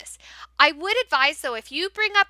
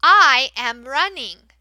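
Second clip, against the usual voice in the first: slow, clear, louder modelling; slow model reading; 3 semitones lower, 5 dB louder, slower than usual. Shown as a demonstration. Teacher modelling the sentence first, slow. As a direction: say it slowly for them to repeat. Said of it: "Model it the first time".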